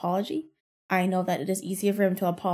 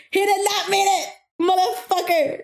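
higher, louder, laughing through it; laughing rant; 9 semitones higher, 5 dB louder than usual. Real, not acted. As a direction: laugh out the outrage. Ranting while laughing at coworker.

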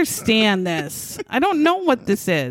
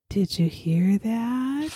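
prim librarian; 4 dB quieter, slower than usual. Retold or imitated. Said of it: "She was talking like a librarian".

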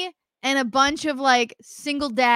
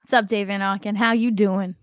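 put-on New York accent; 4 semitones lower than usual. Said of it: "You're a New Yorker now?".

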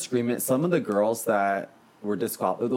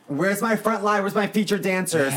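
high-pitched mock dance director; performed high rehearsal call; rehearsal coach; 9 semitones higher than usual. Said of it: "I remember being like, at rehearsals".

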